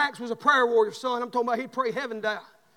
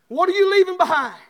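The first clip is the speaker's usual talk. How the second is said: louder and higher second time; louder insistent repeat; 6 semitones higher, 8 dB louder than usual. Acted. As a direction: press the question home.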